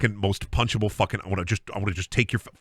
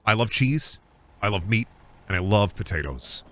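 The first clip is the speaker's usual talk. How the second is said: mock excited self-talk. Shopper gushing to himself about hamburger helper, mock excited. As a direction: gush over hamburger helper. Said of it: "you say to yourself".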